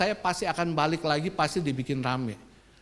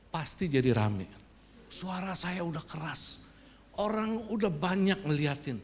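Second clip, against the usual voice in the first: ordinary talk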